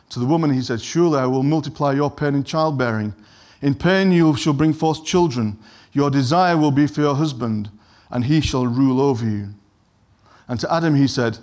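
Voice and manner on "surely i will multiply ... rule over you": solemn scripture reading. Acted. Preacher reads God's words to the serpent, solemn and heavy. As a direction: pronounce the words like a judgement.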